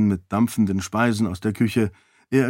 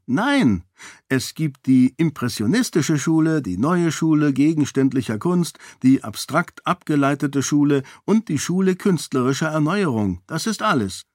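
put-on higher, eager know-it-all child lecturing the adults; precocious little girl; 5 semitones higher than usual. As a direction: rattle it off like a proud little expert. Voicing the little girl Kaise.

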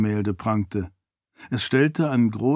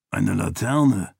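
slow, lower, lightly surprised; mild surprise; 3 semitones lower, slower than usual. A narrator's reading. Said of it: "sagte Galadon überrascht".

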